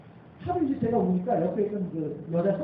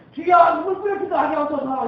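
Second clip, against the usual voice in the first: fervent prayer cry; 8 semitones higher, 9 dB louder than usual. Retold or imitated. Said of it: "이렇게 되더라는 말씀이죠".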